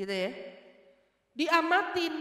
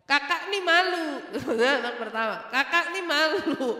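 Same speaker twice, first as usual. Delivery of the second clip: embarrassed complaint; 5 dB louder than usual. Retold or imitated. Child telling off father over his loud talk, embarrassed complaint. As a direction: plead as the embarrassed eldest child. Anak menegur bapaknya.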